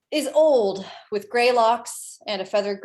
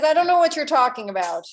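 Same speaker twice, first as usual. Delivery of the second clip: put-on old carpenter; 5 semitones higher, 6 dB louder than usual. Old man denies everything.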